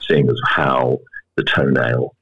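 low, grave doctor breaking bad news; sinister doctor voice. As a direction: deliver doom gravely, a hint sinister. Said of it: "in a very sinister doctor voice".

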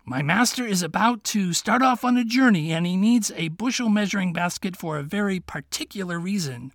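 put-on a sly young fox asking his friend. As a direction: play the clever little fox, kindly. Fox to the king.

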